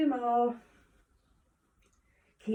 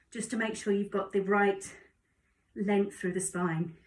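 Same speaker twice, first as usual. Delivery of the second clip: slightly winded, breathy from the plank; talking while out of breath; 2 semitones lower than usual. Real, not acted. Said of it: "I'm getting out of breath".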